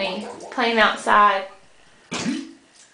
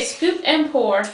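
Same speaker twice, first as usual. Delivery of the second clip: slow and clear; slower than usual. Shown as a demonstration. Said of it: "Can you say".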